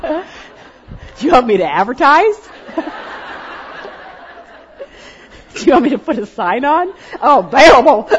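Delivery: high and loud through laughter; laughing joke. Retold or imitated. To the women, laughing about advertising herself. Joking reply to son, laughing.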